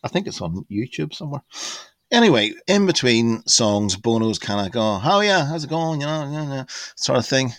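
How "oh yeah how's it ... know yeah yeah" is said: impression of a singer. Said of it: "He's not quite as dub as that".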